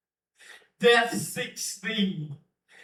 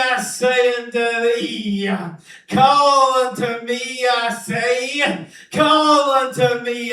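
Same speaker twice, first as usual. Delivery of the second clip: prophetic shout; 3 semitones higher, 4 dB louder than usual. Acted. Prophet cries out summons.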